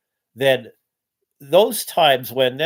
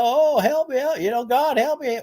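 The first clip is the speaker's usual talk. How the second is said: mock prayer; 12 semitones higher than usual. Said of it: "there's some people praying".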